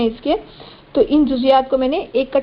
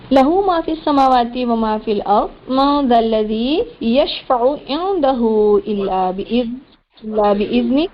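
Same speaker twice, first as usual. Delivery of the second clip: slow, drawn-out chanted recitation; Quran recitation; slower than usual. Shown as a demonstration. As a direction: chant each word long and measured.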